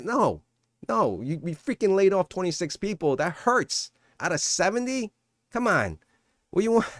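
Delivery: can't believe what they're asking; exasperated outburst. Real, not acted. Vlogger pushing back on viewers about the layoffs, exasperated.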